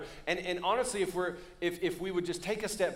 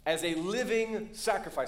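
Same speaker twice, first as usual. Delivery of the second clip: quoting Paul, slow and emphatic; urgent exhortation; 2 semitones higher, slower than usual. Retold or imitated. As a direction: urge them slowly, giving each word weight. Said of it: "There's an urgency in the Apostle Paul".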